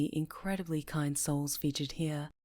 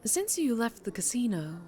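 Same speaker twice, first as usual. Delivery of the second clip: a lady crime boss, lightly voiced, silky and sure; smooth mob boss. Mob boss bidding her old employee goodbye, silky and sure. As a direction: purr it like she owns the room.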